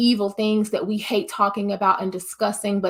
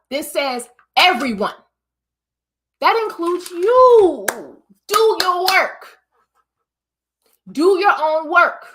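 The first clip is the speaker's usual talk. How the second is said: scolding coworker; 4 semitones higher than usual. Acted. Scolding coworker about chores.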